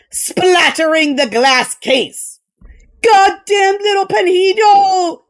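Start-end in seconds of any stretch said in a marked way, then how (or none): 3.0-5.2 shaking voice. A narrator's reading. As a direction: curse through the pain, voice trembling. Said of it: "Mendoza cried, voice shaking".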